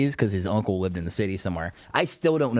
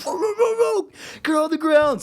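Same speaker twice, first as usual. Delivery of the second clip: imitating cops yelling, much higher; mock cop shout; 4 dB louder than usual. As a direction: bark the orders like a rushing deputy. Cops rushing in with dogs.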